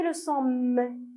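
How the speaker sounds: M held as a long hum; "M" stretched into a steady mmm; sound M held. Shown as a demonstration. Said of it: "vous entendez le son M".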